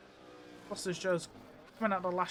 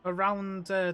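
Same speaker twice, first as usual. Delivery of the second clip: excited call; 7 dB louder, slower than usual. Real, not acted. Commentator calls a big slide.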